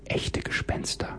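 barely audible, voiceless whisper; a faint shaky whisper of disbelief; trembling whisper. A narrator's reading. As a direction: breathe it out in awe and fear. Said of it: "flüsterte mit zittriger Stimme und kaum hörbar".

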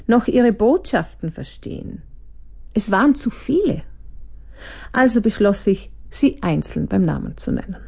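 calm read-aloud narration; reading her book to the listener; story reading. A narrator's reading. Author reads her excerpt aloud, calm narration.

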